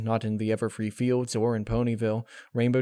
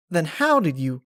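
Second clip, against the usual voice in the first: higher, louder, urgent pony voice; pressing farm pony demanding answers; Applejack cutting in; 6 semitones higher, 6 dB louder than usual. Acted. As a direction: interrupt her, desperate to know. Applejack starts asking.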